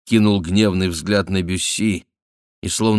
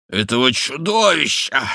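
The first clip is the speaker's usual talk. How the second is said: выше, с нажимом на «чудовища»; выплюнь слово с ненавистью; гневно; 6 semitones higher than usual. A narrator's reading. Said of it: "повторил барон". (гневный возглас барона)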